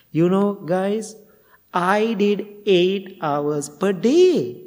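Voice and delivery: a student announcing his long sitting, slow and proud; loud bragging. Retold or imitated. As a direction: stretch each word like a proud show-off. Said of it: "he was so loud".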